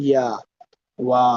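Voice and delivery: "ইয়া" and "ওয়া" glided without pressure; smooth, comfortable glide. Shown as a demonstration. Teacher showing Arabic letters, smooth "ইয়া", "ওয়া". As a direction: ease into "ইয়া", "ওয়া" as semivowels. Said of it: "এই যে একটা comfortable".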